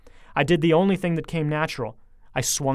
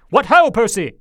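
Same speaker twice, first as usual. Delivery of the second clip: loud, high call across the room; loud, high hail to the boy; cheerful shout; 8 semitones higher, 11 dB louder than usual. A narrator's reading. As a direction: hail Percy from the doorway. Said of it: "he shouted".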